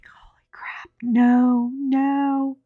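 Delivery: breathy, alarmed whisper under the breath; horrified whisper. Retold or imitated. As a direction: hiss it so nobody nearby hears. Whispered panic at her flirting.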